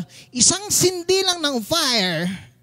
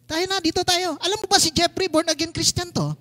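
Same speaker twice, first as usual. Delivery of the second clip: higher-pitched sarcastic teasing; annoying, taunting; 5 semitones higher than usual. Acted. Pastor mimicking the woman's taunts, annoying and sarcastic. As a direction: needle them with a mock invitation. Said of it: "Yung annoying na annoy ka".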